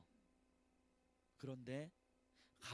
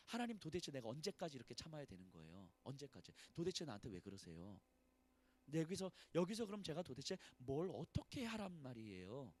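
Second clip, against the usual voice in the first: weary plea; 3 semitones lower, 4 dB quieter than usual. Acted. Voicing David's weary plea.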